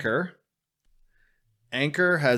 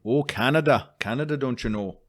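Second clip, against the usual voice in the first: put-on Canadian accent; 3 semitones higher than usual. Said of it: "that's a Canadian accent".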